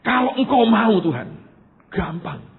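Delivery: retold blunt plea, opening high and loud; blunt complaint to God. Preacher recalling his unvarnished prayer in his room, blunt. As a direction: complain to God without softening it. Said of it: "tidak saya perhalus lah".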